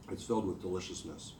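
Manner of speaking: slurping crab juice noisily. Real, not acted. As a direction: talk while slurping a juicy bite. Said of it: "Sorry for my slurping".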